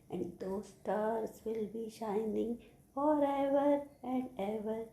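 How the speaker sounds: slow, drawn-out verse; poem recitation. Shown as a demonstration. Teacher reciting the poem for children, slow drawn-out recitation. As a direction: let the line stretch out and settle. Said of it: "I am going to recite the poem".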